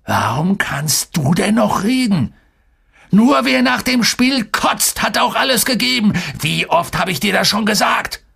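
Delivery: high-pitched, exasperated dressing-down; angry scolding. A narrator's reading. Coach turns on the player who dared speak, angry scolding. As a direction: round on the player, voice climbing high. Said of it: "Fuhr unser Trainer herum".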